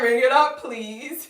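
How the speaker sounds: high, loud and insistent; excited. Retold or imitated. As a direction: ring it up with gusto. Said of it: "I was just like".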